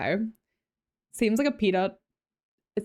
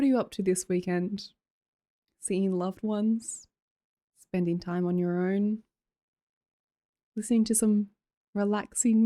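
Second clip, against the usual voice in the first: mock meditation guide. Streamer back to soothing chat with calm questions. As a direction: guide chat gently, half joking. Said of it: "calm down. Uh, again, relaxing".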